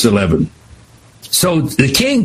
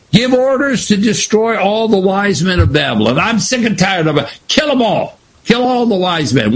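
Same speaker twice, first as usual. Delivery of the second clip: angry king; 5 semitones higher than usual. Acted. Angry king voiced in retelling.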